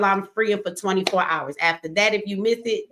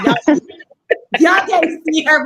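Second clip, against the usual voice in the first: laughing; 8 semitones higher, 9 dB louder, slower than usual. Real, not acted. Laughing about woman backstage.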